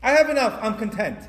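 high, loud declaration of having enough; declared contentment. Acted. Preacher voicing a satisfied eater to God, loud contentment. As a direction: proclaim it firmly, voice lifted. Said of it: "you're basically saying".

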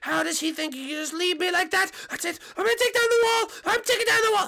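worked-up, exasperated ranting; angry outburst. Acted. Peach furious at being left, angry outburst. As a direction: rant in mock outrage.

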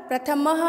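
"प्रथमः" with an audible ha ending; visarga demonstration. Shown as a demonstration. Teacher shows students the two-dot ending, clearly sounded visarga. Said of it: "आप लोग अच्छे से देखें".

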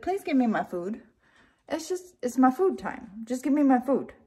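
lightly voiced begging dog; a hint of a pleading pup asking for dinner; dog's voice. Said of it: "That's his voice".

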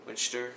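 "Winchester" squashed to "Winch-ster"; mispronunciation. Shown as a demonstration. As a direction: say "Winchester" without the "che" vowel, ending "shter". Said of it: "No, that's still not right".

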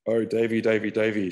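lightly voiced doting over a pet. Emma fussing over her old cat, in a mild doting voice. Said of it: "she doted".

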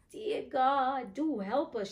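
put-on high-pitched plea of a little girl; crying out in lament. A narrator's reading. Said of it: "she cried".

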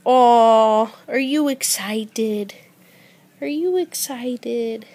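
slow, drawn-out cooing question. Real, not acted. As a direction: gush slowly at an excited pet. Gushing at an excited pet.

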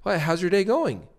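lifted, questioning ending; rising like a question. Shown as a demonstration. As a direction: sound unsure, seeking approval. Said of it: "almost like a question mark at the end".

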